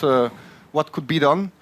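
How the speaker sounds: usual speaking voice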